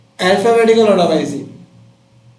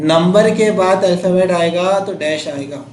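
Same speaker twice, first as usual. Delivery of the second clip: slow teaching; slower than usual. Shown as a demonstration. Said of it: "ये बात याद है।".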